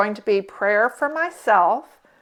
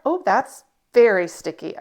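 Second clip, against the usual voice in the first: Elf voice; 3 dB louder than usual. Real, not acted. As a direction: squeal it like Buddy the Elf. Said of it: "I sound like Elf".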